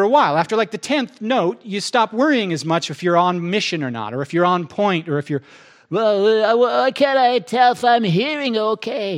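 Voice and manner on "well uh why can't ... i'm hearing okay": louder, higher, slower fretful question; a nervous believer fussing; anxious worrier. Retold or imitated. Pastor voicing a fretful believer asking God, higher and louder.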